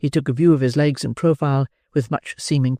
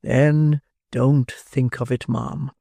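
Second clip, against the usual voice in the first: slow beadle; much slower than usual. Acted. Beadle comforting.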